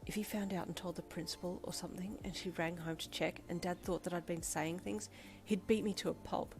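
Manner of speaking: hushed, half-whispered panic; frantic thought. Acted. Girl panicking inwardly about her dad, hushed whisper. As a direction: whisper the fears to yourself. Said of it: "you thought frantically".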